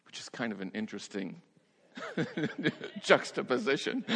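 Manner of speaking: amused aside, chuckling through it; laughing aside. Real, not acted. Preacher chuckling over the Lover's Lane sign. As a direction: share the joke with a chuckle.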